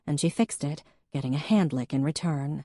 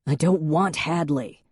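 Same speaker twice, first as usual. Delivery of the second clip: snapped; 4 dB louder than usual. Acted. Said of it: "he snapped".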